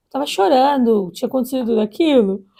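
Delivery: ordinary talk, nothing marked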